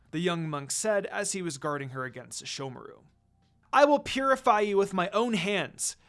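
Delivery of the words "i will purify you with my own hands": a firm, louder warning. A narrator's reading. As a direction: threaten them with a glare. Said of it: "Kagome warned them".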